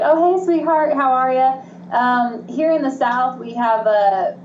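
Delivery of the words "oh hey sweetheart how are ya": high, louder sugary hello; sweet greeting. Retold or imitated. Southern speaker greeting a stranger, sweet and high.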